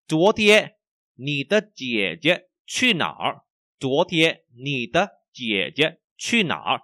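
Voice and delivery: slow, deliberate tone-by-tone question; careful model for repeating; language teacher model reading. Shown as a demonstration. Models sentence for learners. (đọc mẫu chậm từng từ)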